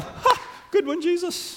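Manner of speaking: high mock laugh-line from the crowd; scoffing. Mourners mocking Jesus with a high scoff. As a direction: sneer it up high like a heckler. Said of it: "definite scoffing, mocking".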